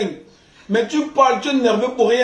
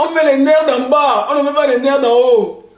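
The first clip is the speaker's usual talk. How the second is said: emphatic preaching; 2 semitones higher, 4 dB louder than usual. Acted. Lecturing viewers on love, a loud mock-preacher proclamation. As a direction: proclaim it like a pulpit preacher, laughing. Louder emphatic sermon-like closing.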